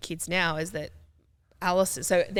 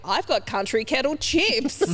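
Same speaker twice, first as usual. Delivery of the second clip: louder, slow, eager pitch of the chips; eager innocent offer; 6 semitones higher, 6 dB louder, slower than usual. Retold or imitated. Naive teen proudly offering chips to a drug buyer, louder. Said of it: "pulled out the packet and went".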